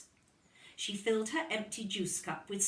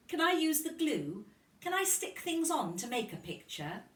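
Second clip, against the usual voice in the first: eager Lucy; 9 semitones higher than usual. A narrator's reading. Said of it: "she said".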